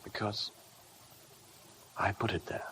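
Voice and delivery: hushed, unvoiced admission; whispered confession. Husband confesses the killing.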